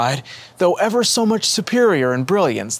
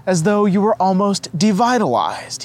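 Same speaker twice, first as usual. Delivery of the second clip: lightly voiced Savio; 8 semitones higher, 4 dB louder than usual. A narrator's reading. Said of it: "he asked".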